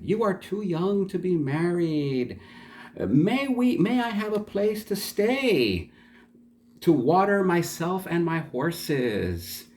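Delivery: high-pitched wheedling suitor; merchant's voice. Acted. Rich merchant flatters the wife and asks to stay, high acted voice. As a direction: play the suitor high, asking for lodging. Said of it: "he said".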